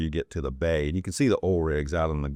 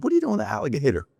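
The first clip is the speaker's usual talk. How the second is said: imitating aunt; 7 semitones higher, much faster than usual. Aunt voiced finding alligator.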